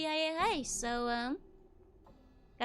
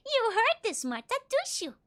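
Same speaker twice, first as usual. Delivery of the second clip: put-on high, loud fretful old woman; frightened crone; 10 semitones higher, 5 dB louder than usual. Martha asking herself if she heard the corpse, frightened. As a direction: fret at herself, alarmed.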